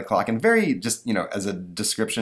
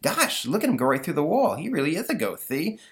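put-on amazed boy voice; 8 semitones higher than usual. Stanley in amazement.

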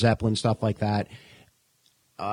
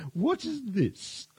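mock puzzled question; 13 semitones higher, 4 dB quieter, much slower than usual. Joking on band name.

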